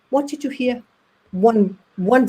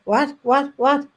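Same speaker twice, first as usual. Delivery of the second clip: 1 startled; 5 semitones higher, slower than usual. Retold or imitated. Stunned at hearing her father.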